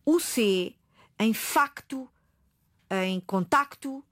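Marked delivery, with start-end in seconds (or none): 1.3-2.1 facto with a K sound before the T; C pronounced. Shown as a demonstration. Explaining that pronunciation rules spelling, C sounded in "facto". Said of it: "Se eu digo o C". 3.2-4.0 contacto slowly, with a K before the T; C pronounced. Shown as a demonstration. Giving an example of the rule, C sounded in "contacto". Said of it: "Se eu digo o C".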